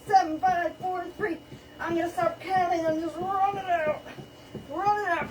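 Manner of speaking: high, pumped-up fitness coach calling; aerobics instructor. Acted. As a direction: drive the class through the sprint. Counts down sprint like instructor.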